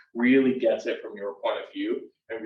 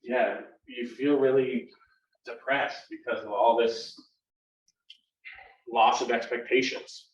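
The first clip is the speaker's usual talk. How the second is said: gentle reflection. Shown as a demonstration. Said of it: "I would say something like".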